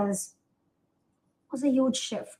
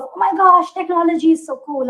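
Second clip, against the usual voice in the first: higher, louder mock gushing; retold excitement; 7 semitones higher, 8 dB louder than usual. Student recalling her robotics phase, gushing excitedly. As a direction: act out a starry-eyed tech fan.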